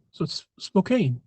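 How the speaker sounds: slow Spokane, rhymed with Kane. Retold or imitated. Mock-arguing the spelling, slowly saying Spokane like Kane. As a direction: draw out Spokane to end in Kane. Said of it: "and I'm like".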